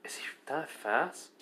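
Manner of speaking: a hushed, unvoiced inner whisper; whispered thought. A narrator's reading. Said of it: "Which Reyes is thinking".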